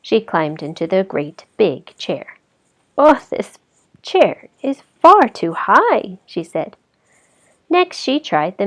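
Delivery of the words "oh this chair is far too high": put-on high, loud, slow girl's complaint; Goldilocks complaining. Goldilocks tells off the too-high chair, high and whiny. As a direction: whine it like a fussy little girl.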